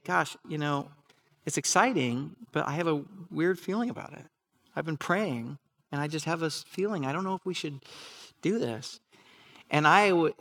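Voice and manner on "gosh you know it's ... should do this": softer, gently imitating his wife's doubts; lovingly. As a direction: voice her worry tenderly and quietly. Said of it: "would just lovingly say".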